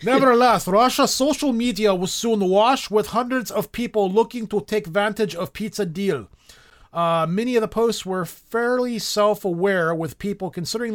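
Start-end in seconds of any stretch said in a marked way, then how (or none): 0.0-6.3 mock Russian accent. Shown as a demonstration. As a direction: read the news like a bad Russian. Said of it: "now I wanna read it as a Russian".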